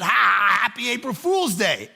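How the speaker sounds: loud mock ha-ha into a gleeful call; mock laughter, then gleeful announcement; imitated laughing. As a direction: imitate kids laughing as they spring a prank. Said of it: "started to laugh and said".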